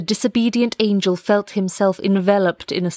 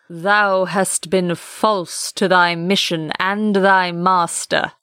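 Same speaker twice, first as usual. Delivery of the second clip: booming archangel voice; slower than usual. Acted. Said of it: "said the archangel".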